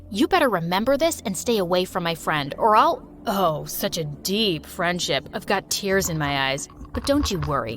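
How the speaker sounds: low, sneering threat, slowing at the end; mocking bully.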